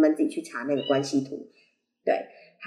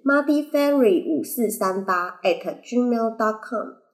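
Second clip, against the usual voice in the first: slow spelling out; 4 semitones higher, slower than usual. Shown as a demonstration. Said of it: "我知道你记不住".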